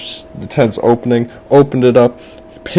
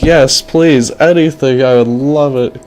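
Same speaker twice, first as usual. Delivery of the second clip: put-on higher-pitched eager kid voice; eager boy; 4 semitones higher than usual. Boy accepts the fortune teller's offer, high and eager. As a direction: plead like a thrilled little boy. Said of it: "And the boy was like".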